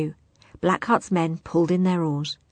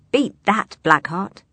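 proud; 3 dB louder than usual. Acted. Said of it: "said Billy proudly".

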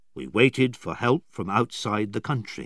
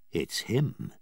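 softly into a friend's ear; quiet words to Spilett about the stranger; 5 dB quieter than usual. Acted. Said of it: "he said quietly in Spilett's ear".

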